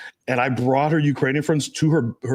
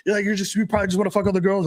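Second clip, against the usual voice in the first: higher-pitched mock girlfriend complaint; accusing girlfriend; 6 semitones higher, faster than usual. Girlfriend accusing her guy in a fight, mock complaining.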